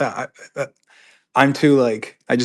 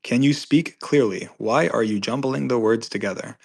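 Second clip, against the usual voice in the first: deliberate, over-enunciated opening, easing toward usual pace; exaggeratedly clear; slower than usual. Streamer reading out a complaint about jumbled words, exaggeratedly clear. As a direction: spell it out slowly for a mock complaint.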